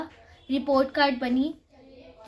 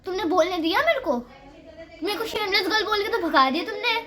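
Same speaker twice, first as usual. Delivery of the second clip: imitated teacher complaint; 4 semitones higher than usual. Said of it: "तो उसने ऐसे बोला".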